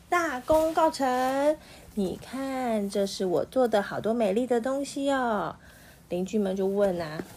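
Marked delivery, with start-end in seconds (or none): 0.1-5.5 loud triumphant shout. Acted. Magician shouts his triumph to the neighbours. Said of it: "魔术师就大喊".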